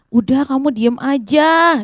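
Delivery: slow, drawn-out scolding; acted annoyance. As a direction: shut him up wearily, dragging the words. Crowd scolds the shouting man. (menghardik dengan kata dipanjangkan)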